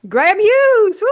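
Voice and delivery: big rising announcer build to the name; announcing the guest with a showman's flourish; hyped guest intro. Real, not acted. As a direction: introduce him like a boxing champ.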